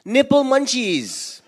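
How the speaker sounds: slow mock yell from the stands. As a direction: call it out like kids at a game. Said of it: "You know what they yelled out?".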